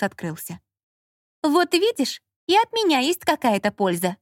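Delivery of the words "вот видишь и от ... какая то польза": higher gloating reproach; triumphant, mildly spiteful; vindictive. A narrator's reading. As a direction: rub it in, vindictively. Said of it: "мстительно проговорила Лола".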